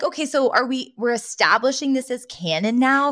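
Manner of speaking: sceptical viewer pushing back; incredulous. Retold or imitated. Her own incredulous reaction.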